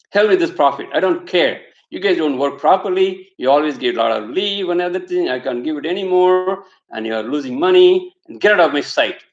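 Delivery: a touch of a boss losing his temper; angry boss. Acted. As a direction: boss snapping at his worker, mock angry. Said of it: "the boss gets angry with the guy".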